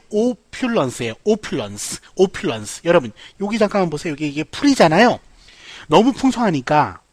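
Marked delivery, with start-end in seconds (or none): 0.1-2.8 opulence in careful syllables, stress on the first; pronunciation demo. Shown as a demonstration. Teacher reads out the phonetic spelling, opulence stressed up front. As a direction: say opulence with a long opening O. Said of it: "발음 기호는요".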